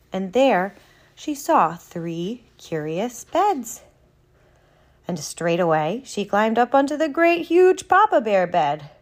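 animated, measured story narration; storybook narrator with playful emphasis; storytelling to children. A narrator's reading. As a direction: read it like a bedtime tale, lilting on key words. Reads a children's story aloud.

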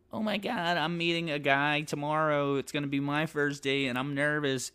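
high, excited chattering lady; mock nervous gushing. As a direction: gush about tomorrow's date. Nosy lady voiced.

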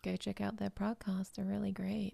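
soft whispered plug. Pretend. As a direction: whisper it slowly.

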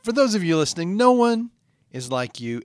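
earnest self-help pitch; self-help podcast intro read; motivational host read. Acted. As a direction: sell the dream to listeners.

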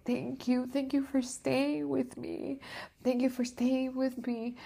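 put-on high, soft, small thankful child voice; clinging thanks of a frightened child; grateful little girl. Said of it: "like a little girl".

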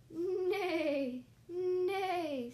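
loud, high wavering whinny; drawn-out storybook horse neigh. Acted. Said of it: "said the horse".

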